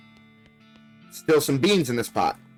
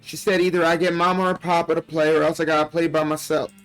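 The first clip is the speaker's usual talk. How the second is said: lightly voiced young girl, a bit higher; little girl voice; 3 semitones higher than usual. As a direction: read it like a frightened child's diary. Reads little girl's diary aloud.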